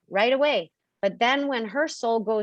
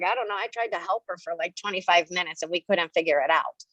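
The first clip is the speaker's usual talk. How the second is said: voicing the analytical self; 4 semitones lower than usual. The analytical self reports failing to help, low and tired. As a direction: sigh it out, worn down. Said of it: "analytical self is like".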